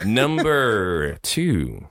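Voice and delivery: stretched-out round announcement; slow, drawn-out announcer delivery; game-show announcer. Pretend. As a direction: draw the words right out like a host. Host announces the next round.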